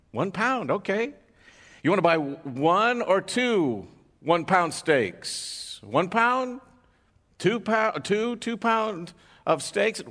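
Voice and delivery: high, drawn-out double-checking; slow disbelief at the dog's order; incredulous butcher. Retold or imitated. Butcher confirms dog order.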